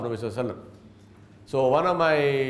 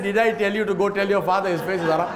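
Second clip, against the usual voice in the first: retold scolding; 3 semitones higher, 3 dB louder, faster than usual. Sheikh scolding his student.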